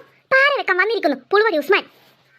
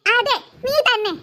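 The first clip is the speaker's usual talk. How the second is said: laughing tease; slower than usual. Acted. Teasing accusation with laugh.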